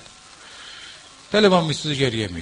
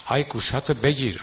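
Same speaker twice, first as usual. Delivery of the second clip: mocking a eulogist. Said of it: "مداحی که بیاد مسخره در بیاره".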